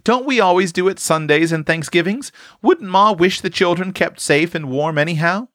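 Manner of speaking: put-on high, insistent girl overruling an objection; spirited. A narrator's reading. Tilly pushing Eph to obey her orders, spirited. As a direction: argue it with spirit, pitched well up throughout. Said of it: "Tilly spoke with such spirit".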